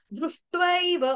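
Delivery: दृष्ट्वैव said slowly with a clear द्र and ट्व cluster; teacher modelling दृष्ट्वैव; careful pronunciation. Shown as a demonstration. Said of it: "द, उसके नीचे र".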